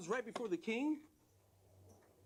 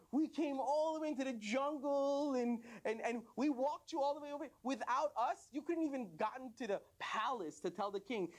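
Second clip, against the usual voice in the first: raised pitch, insistent protest; indignant boasting; 6 semitones higher than usual. Acted. Legs claiming credit to the other body parts, indignant boasting. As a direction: argue your importance, pitched up.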